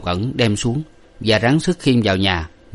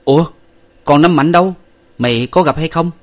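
urgent question; 8 semitones higher, 6 dB louder than usual. A narrator's reading. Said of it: "Chàng lại hỏi rằng".

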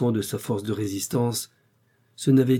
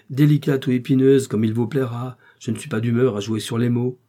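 louder, a flash of temper; heated; 5 dB louder than usual. Acted. Husband irritated at wife's wordplay, heated. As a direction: snap it back, irritated. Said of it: "avec quelque emportement".

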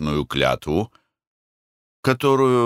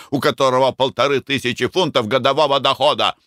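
angry scolding; 7 semitones higher than usual. A narrator's reading. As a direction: tear into the meddling boy. Mick berates his cousin.

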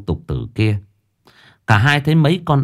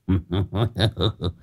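put-on a lazy drunk chuckle; drunken chuckle; 7 dB quieter than usual. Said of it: "giọng lè nhè, chưa tỉnh cơn rượu".

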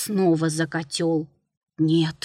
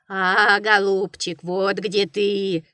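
bleating; slower than usual. Acted. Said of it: "заблеяла баранья голова".

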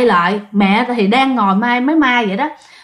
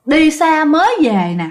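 ghostly husband; 4 semitones higher than usual. Retold or imitated. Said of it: "ổng mới nói rằng á là".

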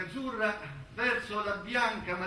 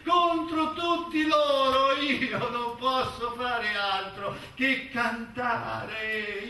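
building declamation; 3 semitones higher, 4 dB louder than usual. Acted. Rising protest in recited poem.

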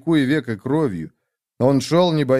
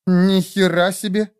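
higher-pitched, drawn-out exclamation; raised voice; 7 semitones higher than usual. A narrator's reading. Nastya sees the stranger undressed, voice raised. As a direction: exclaim in slow, raised disbelief. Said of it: "повысила голос Настя".

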